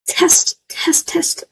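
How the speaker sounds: unvoiced mic check whisper; whispered test. Real, not acted. Streamer checks mic in a whisper. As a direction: breathe the words test test.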